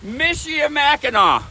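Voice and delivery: "Michilimackinac" said as MISH-ill-ee-MACK-in-aw, ending in "aw"; careful pronunciation. Shown as a demonstration. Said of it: "Practice this word".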